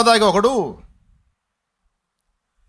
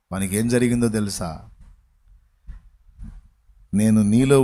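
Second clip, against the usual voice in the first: a hint of a deep, solemn divine voice, lower throughout; voice of God; 9 semitones lower than usual. God reassures his son in a lowered, solemn voice. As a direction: speak as God, calm and grave. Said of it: "దైవస్వరం ఆయనకి వినబడుతుంది".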